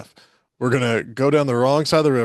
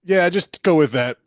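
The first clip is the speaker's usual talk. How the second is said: excited; 6 semitones higher, 5 dB louder than usual. Retold or imitated. Mocking producer, louder.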